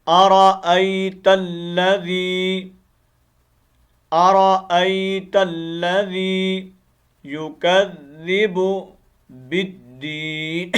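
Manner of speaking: slow, drawn-out chanted tajweed recitation; Quran recitation. Acted. Teacher reciting the verse for students, slow melodic chant. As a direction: intone each word slowly and melodically.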